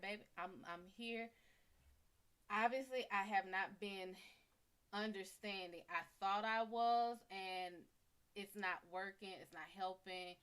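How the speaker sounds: gentle. Shown as a demonstration. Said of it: "So just speak to her".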